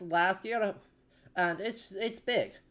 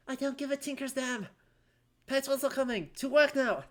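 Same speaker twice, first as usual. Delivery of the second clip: gruff innkeeper; 5 semitones higher than usual. Acted. Gruff innkeeper character voiced.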